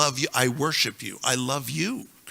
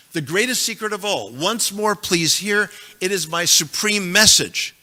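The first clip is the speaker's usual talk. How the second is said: each phrase stressed, greatest and message falling; emphatic quotation; 3 semitones higher than usual. Shown as a demonstration. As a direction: declare the verse with full emphasis. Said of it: "Extraordinarily emphatic".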